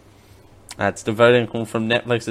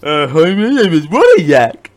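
imitated yak voice; 2 semitones higher, 6 dB louder than usual. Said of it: "And he does that voice".

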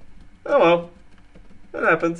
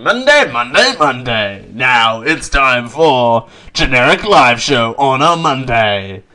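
mock announcer; 5 dB louder than usual. Mock announcer jingle for show.

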